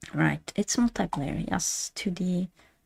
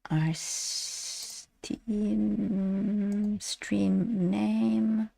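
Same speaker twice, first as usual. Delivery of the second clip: whisper; 4 semitones higher, 3 dB quieter, much slower than usual. Real, not acted. Reading quietly while browsing.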